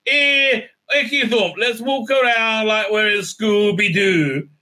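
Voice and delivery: high, hammed-up exclaiming parody; mocking caricature. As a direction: send up the heroine as a cartoon explorer. Mocking the heroine exploring.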